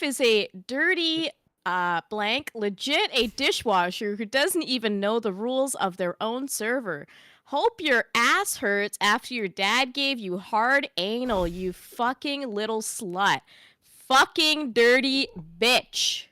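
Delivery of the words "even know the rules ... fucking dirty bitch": slow deadpan reading. Shown as a demonstration. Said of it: "read for me what Cheese Puff had to hear".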